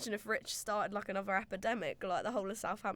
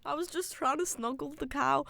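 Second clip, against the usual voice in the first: higher-pitched Brummie attempt turning Scottish; accidental Scottish accent; 5 semitones higher than usual. Co-host mimics friend excusing the cow, Brummie gone Scottish. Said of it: "Why was that Scottish?".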